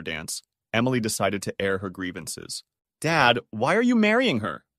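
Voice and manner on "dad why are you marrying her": loudly. A narrator's reading. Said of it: "Emily asked loudly".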